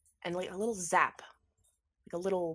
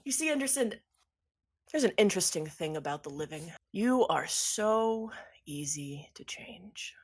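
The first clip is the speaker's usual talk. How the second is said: lightly voiced villain with stretched emphasis; gloating villain; 3 dB louder than usual. Villain explaining to Anderson how easy the living are to change, gloating. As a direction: savour the explanation, lilting.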